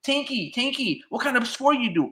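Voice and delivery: butter him up like a fawning fan; mock fawning reporter. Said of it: "try to kiss his ass and be like".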